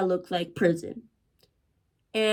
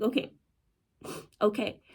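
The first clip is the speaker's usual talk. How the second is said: small, soft giving-in; meek retold compliance; 6 dB quieter, faster than usual. Girl submitting to the receptionist, meek and soft. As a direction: say it softly, as if afraid to argue.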